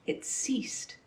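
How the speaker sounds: breathy hush for a sudden magic stop; whispered. A narrator's reading. Narrator hushes as the rain suddenly ceases, whispering. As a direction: drop to a bare whisper, almost no voice.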